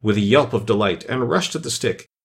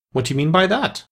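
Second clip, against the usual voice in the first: higher-pitched, sternly demanding question; 6 semitones higher than usual. A narrator's reading. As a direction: demand an answer like a displeased superior. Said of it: "said the caterpillar sternly".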